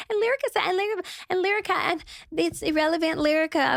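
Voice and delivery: high, fast, breathless name-dropping; mocking rival's rambling. Mocking the rival on a podcast, high and rushed. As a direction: parrot her rambling on about Lyrica, way up high. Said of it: "She literally was in Cam Newton's interview".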